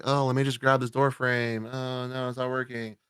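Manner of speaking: half-hearted mock damsel whining; mock struggle. Mocking the victim's lazy fight to stay. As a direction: ham up a lazy, fake struggle. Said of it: "The lazy attempt to, like, stop".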